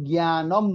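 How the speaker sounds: slow জ্ঞানম ending in a closed m; joined final consonant. Shown as a demonstration. Teacher answering own question on hasanta, slow জ্ঞানম, closed final m. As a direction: stretch জ্ঞানম and shut it on m. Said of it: "যখন হসন্ত থাকবে তখন কি হবে".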